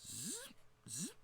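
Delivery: soft, high imitated servo whirr; two short high mechanical zips; mechanical servo buzz. Narrator imitates the mercenary's suit adjusting, soft high buzz. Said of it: "series of sharp, precise mechanical adjustments".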